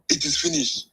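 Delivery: high, solemn quote of the scripture; solemn Bible quote. Retold or imitated. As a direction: lift the voice high as if quoting scripture. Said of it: "like the Bible say".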